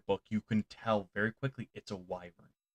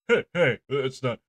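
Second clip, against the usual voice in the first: yelping dog, caught out and protesting; a dog squirming while pleading; hammed-up flustered dog. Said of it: "old Duke goes".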